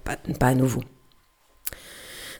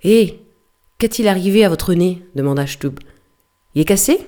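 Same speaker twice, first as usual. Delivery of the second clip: calling out mockingly; 2 semitones higher, 4 dB louder than usual. Stubb calls to the sailor.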